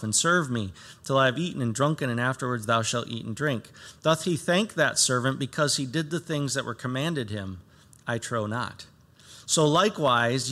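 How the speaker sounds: measured, formal reading of the passage; scripture reading. Acted. Pastor reading scripture to the church, measured and formal. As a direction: read the verses out to the congregation. Pastor reads Luke seventeen aloud.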